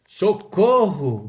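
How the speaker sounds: loud, drawn-out mock cry for help; hammed-up call for rescue; mock panic. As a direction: cry out as if about to faint. Joking mock panic of André.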